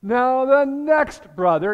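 smirking Sadducees springing their trap. Retold or imitated. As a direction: tell it like a sly joke you can barely keep straight. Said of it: "they're kind of smirking".

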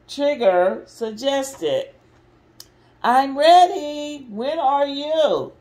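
lively, expressive picture-book reading; mother reading a Disney story to restless kids, lively and expressive; reading to children. Acted. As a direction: read it out big for the little ones. Reads Winnie the Pooh to kids.

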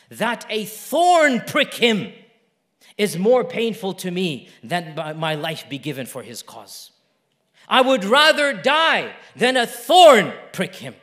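drawn-out, emphatic declaration with swelling volume; fervent oath. Retold or imitated. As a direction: swear it with slow, heavy conviction. Retelling a companion's fervent oath.

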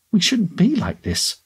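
high, slow, anguished plea; a strained cry held back from full volume; half-scream. A narrator's reading. Tasha to Gary as they fall apart, half-screamed. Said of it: "half screamed".

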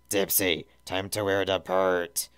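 lightly voiced Lala imitation; mimicking Lala. A narrator's reading. Tails mimicking Lala to scare Dipsy, light imitation. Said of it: "In the perfect mimicry of Lala's voice".

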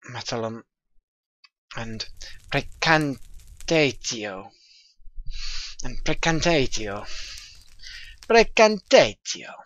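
a hint of an Italian accent on the Latin words; vague Italian accent. Reading out Latin recipe ingredients, faint mock Italian accent. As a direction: lightly roll the Latin names like a half-hearted Italian. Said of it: "putting on a, like, a sort of really vague Italian accent".

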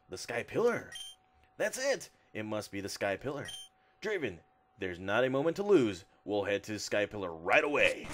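lightly voiced eager Steven; reading Steven. Streamer reading Steven's dialogue with mild excitement. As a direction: read the hero's line with a touch of urgency.

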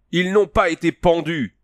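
cri très haut et perçant de vieillard; voix criarde. Acted. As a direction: crier d'une voix aiguë et cassante. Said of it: "cria-t-il d'une voix criarde". (le vieux chef crie, voix criarde, à Conan)

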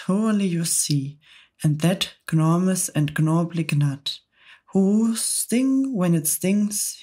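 bouncy, rhythmic verse recital; poem recital. A narrator's reading. Centipede reciting a comic poem to the travellers, bouncy and rhythmic. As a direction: recite it with gleeful relish.

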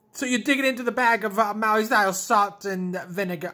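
lightly hammed-up commercial read, quick; put-on voice. Vlogger reading the chip bag aloud, lightly mock ad voice. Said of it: "I don't know why I'm doing that voice".

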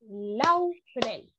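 LAUREL split into lau, then rel; syllable by syllable. Shown as a demonstration. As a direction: break Laurel into two separate beats. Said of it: "cuántas sílabas tiene laurel".

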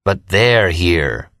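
lightly voiced character, very slow; a drawn-out mock line, slowed right down; imitating a character. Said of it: "imitating one of his characters".

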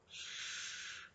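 soft unvoiced shush; whispered shh. The duck whispers shh to sleepy Lily. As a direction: hush them gently. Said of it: "whispered the duck".

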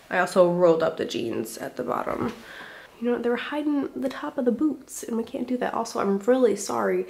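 out of breath, huffing between words. Real, not acted. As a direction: talk while still catching your breath. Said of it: "your girl is absolutely out of breath".

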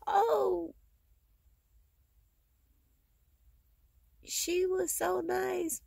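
high, slow sugary mock sympathy; imitating people who pretend to care, high and drawn out; mock mourners. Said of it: "They'll be like".

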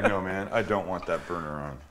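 low, laughing through the words. Retold or imitated. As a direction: chuckle the reply out. His own retold reply, laughing.

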